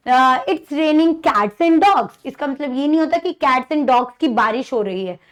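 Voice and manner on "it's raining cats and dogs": slow, deliberate reading of the idiom; teacher reading an example very slowly. Shown as a demonstration. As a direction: spell the idiom out slowly for the class. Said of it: "जैसे ये कहते हैं ना".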